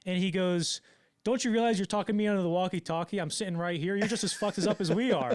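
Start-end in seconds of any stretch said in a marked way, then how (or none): 1.2-5.4 raised, louder voice in retold outrage; mock exasperated scolding. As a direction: berate a clueless colleague, hammed up. Acts Cameron berating the assistant.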